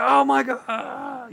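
high, stretched-out cry of triumph; ecstatic relief. Retold or imitated. Streamer finally completing the game, stretched high cry of relief. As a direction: draw it out like a release. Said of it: "losing my mind".

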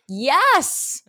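high-pitched, emphatic agreement; high, relieved-sounding validation; eager agreement. Retold or imitated. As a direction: imitate a crowd wholeheartedly agreeing. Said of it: "And everyone's like".

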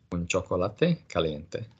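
slow, careful "Un chocolate caliente" said for repeating; slow model phrase. Shown as a demonstration. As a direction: give it slowly to copy. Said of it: "I like to order in a cafe".

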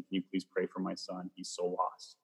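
hushed, imploring retold plea; softly voiced worried plea; pleading mother. Mom asking prayer warriors to pray for her son, softly pleading.

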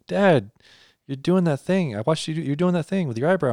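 hint of a kid calling out Dad; daughter scolding dad. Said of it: "His daughter's saying".

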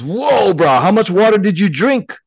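high, laughing stoned monkey; high giggly whoa, bro; laughing punchline. Acted. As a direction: crack up on the punchline.

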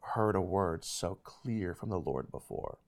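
hushed, halting awe in the voice; voice almost shaking. Retold or imitated. Camp leader giving Zach God's word, softly and shaking. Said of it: "His voice was almost kinda shaking".

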